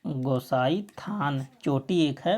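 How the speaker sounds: spelling out "गोसाई थान चोटी" slowly for students; slow down so the class can note the name; slow teacher dictation of a place name. Shown as a demonstration. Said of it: "कहाँ से निकलती है?".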